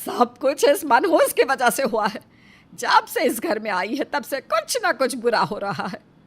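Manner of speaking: mother-in-law's bitter accusation; bitter blame. Acted. Mother-in-law blaming the unlucky daughter-in-law, bitter accusation. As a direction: lay all the blame on her, bitterly.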